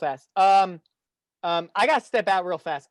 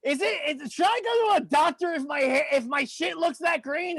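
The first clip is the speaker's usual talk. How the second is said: silly tipsy voice; 5 semitones higher than usual. Pretend. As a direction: ham up a tipsy bro. Tipsy silly chatter to girls.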